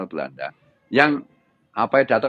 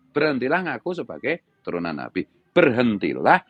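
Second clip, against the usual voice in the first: firm and hard; 3 semitones higher than usual. Real, not acted. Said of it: "Saya tegas keras".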